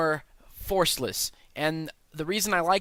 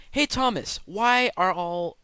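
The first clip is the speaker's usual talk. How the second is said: high, slow put-on voice of a curious fan; a playful viewer's voice cutting in; mock viewer voice; 5 semitones higher, 3 dB louder, slower than usual. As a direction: ask it like a puzzled viewer. Imagined viewer asks a question.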